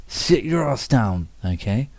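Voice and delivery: petulant. Pretend. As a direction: drag it out like a sulky brat. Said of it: "Didn't that sound petulant?".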